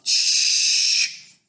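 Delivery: long voiceless shush; urgent drawn-out hush; whispered. A narrator's reading. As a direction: hush someone sharply. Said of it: "whispered James".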